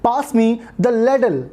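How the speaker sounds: very slow, each word spaced out; teacher modelling a request slowly; slow model phrase. Shown as a demonstration. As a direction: say it slowly for the learner to copy. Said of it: "you can say".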